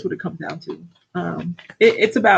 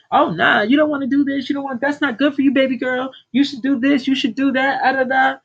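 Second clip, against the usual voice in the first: imitating mother; 5 semitones higher than usual. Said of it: "voicing mother's advice to daughter".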